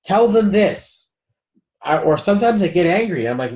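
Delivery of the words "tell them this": higher, slower, otherworldly voice; spirit guides' voice. Retold or imitated. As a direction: voice the guides nudging you gently. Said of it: "They're like".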